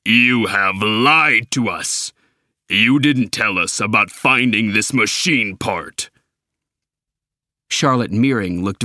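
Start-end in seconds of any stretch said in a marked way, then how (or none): 0.0-6.1 shaking with anger. Acted. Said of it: "Optimus's voice was shaking with anger".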